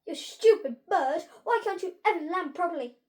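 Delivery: high, loud, cross scolding; high-pitched voice. A narrator's reading. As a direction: berate the bird in a piercing little voice. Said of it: "came a high-pitched voice".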